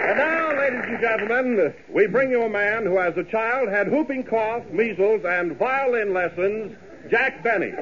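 grand radio host introduction; announcer intro. Acted. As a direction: build up to the star's name.

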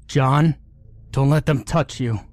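yelled warning to a friend; yelling. A narrator's reading. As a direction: shout a warning through glass. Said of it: "I yelled".

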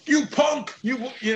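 put-on very high cackly old man voice; old prospector. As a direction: squeak it like a cranky geezer. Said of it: "a parody old man".

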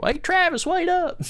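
cheery shout to a coworker. Retold or imitated. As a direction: suddenly drop the creepy act and hail your buddy. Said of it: "You know".

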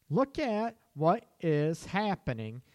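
slow, measured insistence; slow, firm restatement; deliberate emphasis. Real, not acted. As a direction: spell it out word by word. Same urging, restated deliberately.

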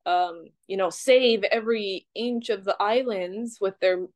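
mock-grand sarcasm, drawn out with pauses; dryly facetious, with a laugh just after. Real, not acted. Criticizing the saviors of Western paradigms, facetious. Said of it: "I'm being facetious".

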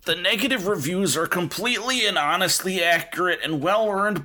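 put-on creaky old-timer reading a review; old prospector. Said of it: "slipping into his old prospector voice".

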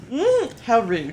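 Morgan Freeman. Retold or imitated. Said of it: "What if it was Morgan Freeman?".

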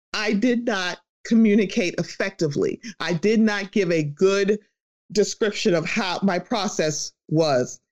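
measured, deliberate imitation of an apology; retold apology. Voicing a sincere public apology.

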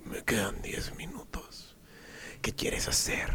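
slow, breathy mock seduction; half-sexy whisper. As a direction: imitate a tipsy seductress, whispering slowly. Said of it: "medio sexosa".

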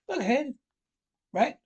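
high, loud warning shout; sudden warning cry. Acted. Mole warns Rat of the bank, a loud sudden cry. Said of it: "cried the mole suddenly".

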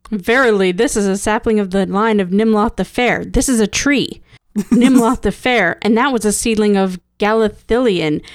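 mock biblical prophet. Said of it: "it's the stupidest bit".

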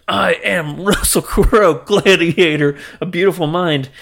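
slow, mock-grand self-introduction; grand announcement. Imitating Russell Crowe announcing himself to the world, slow and grand. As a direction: announce it like a big arrival, tongue in cheek. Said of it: "to announce yourself to the world like".

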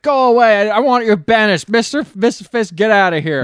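high, loud mock outburst; retold yelling. Writer banishing a woman from his room, mock yelling. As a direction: act out an irritated writer's yell. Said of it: "he just yells at her".

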